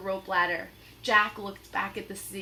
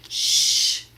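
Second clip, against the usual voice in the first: sharp hushing; shush; 11 dB louder than usual. Acted. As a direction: silence her quickly. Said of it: "said Jack".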